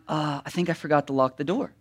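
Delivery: soft, low, quick murmur to oneself; small nagging thought. Retold or imitated. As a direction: voice a little thought quietly, half to yourself. Small thought popping up at bedtime.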